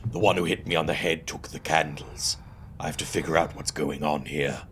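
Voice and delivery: low, subdued in-character reading; game text read-out. Acted. Investigator reasoning about the missing candles, low and subdued. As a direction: read it low as the hero's inner thought.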